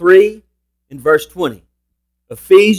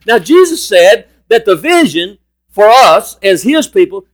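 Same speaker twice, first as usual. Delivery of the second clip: raised, forceful preacher's delivery; emphatic preaching; 5 semitones higher, 4 dB louder than usual. Real, not acted. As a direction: drive home each key word, stretching the biggest ones.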